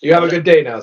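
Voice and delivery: lightly voiced customs officer; a hint of a polite official. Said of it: "says the customs officer".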